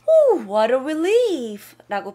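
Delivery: hushed confiding whisper. Real, not acted. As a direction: whisper it like a secret. Whispering during the lesson.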